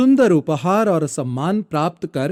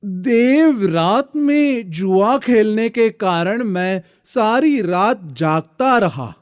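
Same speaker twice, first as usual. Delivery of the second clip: drowsy servant excuse; 4 semitones higher than usual. Acted. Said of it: "गोरंभ बोला".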